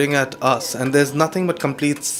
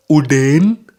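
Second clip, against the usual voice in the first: solemn confession; much slower than usual. Retold or imitated. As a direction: call the name, then confess very slowly as the friend. Friend's solemn confession as punchline.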